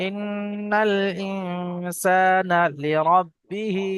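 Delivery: Quran recitation. Shown as a demonstration. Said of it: "teacher recites the verse".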